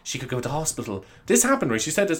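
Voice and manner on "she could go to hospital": softly voiced concerned customer; lightly put-on polite mum; customer's voice. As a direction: mimic a fussy mother, lightly. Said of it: "She went".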